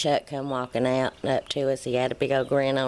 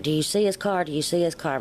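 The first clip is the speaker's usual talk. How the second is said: urgent mock yell, pitched high on the first question; mother anxiously asking her husband if he sees the car; retold yell; 4 semitones higher, faster than usual. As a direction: call out the question anxiously, then let it settle. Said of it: "I yelled".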